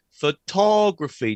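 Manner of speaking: "photography" drawn out slowly on TOG; stress on second syllable. Shown as a demonstration. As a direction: stretch and punch the TOG in "photography". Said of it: "the stress moves to the second syllable".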